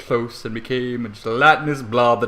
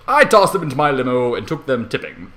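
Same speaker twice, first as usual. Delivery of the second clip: ordinary delivery, nothing marked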